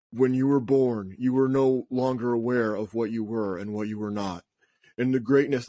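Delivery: lightly voiced pompous interviewer; a hint of a pretentious host's put-on accent. Mimicking the podcast host's monologue with a light put-on accent. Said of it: "put on, like, accent".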